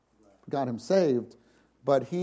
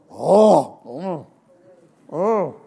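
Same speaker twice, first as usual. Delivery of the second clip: a mock oh of delight at a tasty bite; savouring food; 7 dB louder, much slower than usual. Shown as a demonstration. Preacher imitating someone tasting good food, mock delight. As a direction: relish the taste. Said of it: "you eat something and you go".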